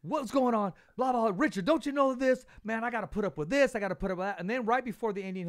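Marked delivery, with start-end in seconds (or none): 0.0-4.4 high, loud imitated accent, easing off at the end; Brad Goodman's accent. Host mimics Brad venting on the phone, high and loud accent. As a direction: rant like the promoter in his accent, higher and louder. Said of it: "he has that accent".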